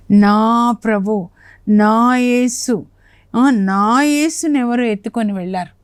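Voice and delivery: slow, aching, each word drawn out; tender lament. Retold or imitated. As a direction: call for her Lord as if grieving. Mary lamenting her lost Lord.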